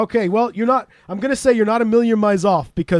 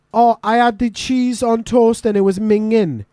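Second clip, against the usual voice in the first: louder, higher, drawn-out complaint; Welsh example sentence; 4 semitones higher, 3 dB louder, slower than usual. Acted. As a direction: grumble it slowly as a local's disgusted example. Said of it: "for us would be".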